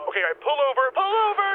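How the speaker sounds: panicked call to stop the car; urgent shout. Acted. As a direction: driver told to pull over, mild panicked yell. Passenger about to vomit.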